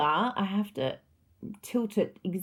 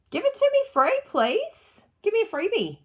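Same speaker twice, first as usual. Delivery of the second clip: high, pleading wheedle for a freebie; playful begging; 12 semitones higher, 3 dB louder than usual. Pretend. Crafter begging viewers' company for a freebie, playful pleading. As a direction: beg sweetly, half joking, for the free gift.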